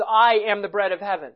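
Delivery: "I" leaned on, the rest even; emphatic "I" at the start; stress on I. Shown as a demonstration. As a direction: put the weight on "I". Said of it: "first point of emphasis".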